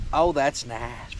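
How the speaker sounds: slow, lightly voiced pig talking; pig's voice. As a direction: speak for the pig, slow and a bit low. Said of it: "He said".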